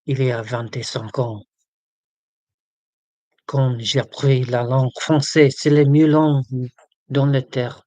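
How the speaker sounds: hammed-up English speaker's French accent. Shown as a demonstration. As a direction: show off schoolboy French accent. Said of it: "try to do a French accent".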